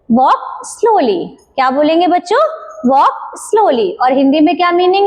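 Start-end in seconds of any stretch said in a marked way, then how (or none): 0.1-1.3 very slow, stretched model phrase; slow demo. Shown as a demonstration. Teacher models walk slowly very slowly for kids. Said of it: "क्या बोलेंगे English में".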